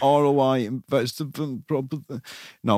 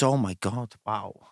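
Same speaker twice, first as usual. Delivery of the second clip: just-woke-up voice; 4 dB quieter, slower than usual. Pretend. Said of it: "You just woke up and thought".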